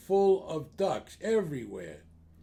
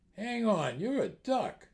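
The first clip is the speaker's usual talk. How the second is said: higher-pitched, lightly acted astonishment; a touch of startled disbelief; mild surprise; 5 semitones higher than usual. Publican astonished by talking duck.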